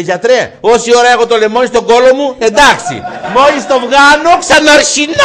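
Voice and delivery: very high, loud squeal, slowing near the end; squeaky punchline voice. Acted. (τσιριχτή φωνή, αργά στο τέλος)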